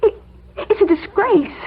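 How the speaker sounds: stammering, close to tears; upset and fighting back tears; tearful. Acted. Secretary upset at boss's firing.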